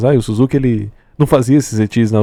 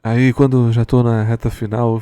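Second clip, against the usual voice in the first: a smoker's rough voice; sleepy smoker's voice. Real, not acted. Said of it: "tô com a minha voz de fumante".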